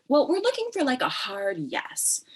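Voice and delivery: retold cautious reply. Poet answering an editor's request, retold cautious reply. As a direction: start very high, then stretch out the end.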